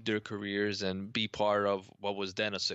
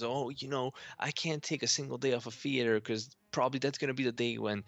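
fast, airy actress voice, pitched up; Debra Messing character; 3 semitones higher than usual. Retold or imitated. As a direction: play a self-important stage actress. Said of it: "Deborah Messing's character who says".

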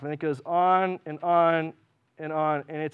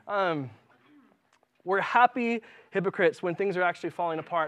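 usual speaking voice

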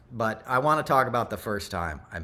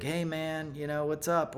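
easygoing higher-voiced hail, lightly imitated; cool, casual President Carter; 6 semitones higher than usual. President Carter greets Graham in the hallway, cool and casual. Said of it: "he was the coolest guy".

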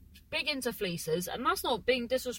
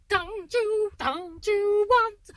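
emphatic plea; 11 semitones higher, 6 dB louder, much slower than usual. Real, not acted.

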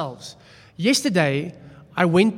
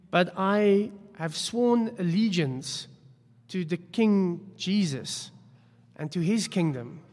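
soft sincere; 4 dB quieter than usual. Real, not acted. Pastor turns soft, slow.

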